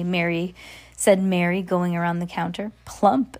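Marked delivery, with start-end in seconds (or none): 2.9-3.4 higher-pitched gleeful exclamation; exclaiming. Acted. Witch poking the girl in the ribs, exclaiming. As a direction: pop it out as an exclamation. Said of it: "she exclaimed".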